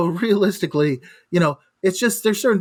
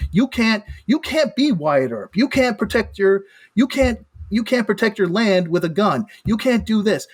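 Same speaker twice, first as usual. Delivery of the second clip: pounding the desk for emphasis; hitting the desk on each point; banging the desk; 3 semitones higher than usual. Real, not acted. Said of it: "you're gonna have to stop hitting the desk".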